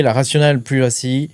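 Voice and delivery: English term with a French accent; self-mocked French-accented English. Real, not acted. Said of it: "avec mon super accent". (anglais avec accent français)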